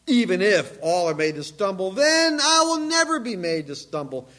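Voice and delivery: loud emphatic vow; yelled vow. Shown as a demonstration. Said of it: "meaning he yelled this".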